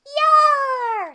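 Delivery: high, loud pirate cheer; a hearty high Yar; pirate yell. Acted. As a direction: bellow it like a happy pirate. Pirate agreeing loudly.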